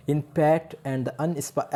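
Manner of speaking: usual speaking voice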